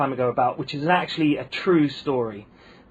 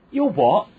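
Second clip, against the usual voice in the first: baffled question; 5 semitones higher, 5 dB louder than usual. Retold or imitated. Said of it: "And I said".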